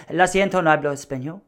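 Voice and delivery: lightly put-on Spanish accent; confident attempt at a Spanish accent; committed Spanish accent. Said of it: "I like to commit".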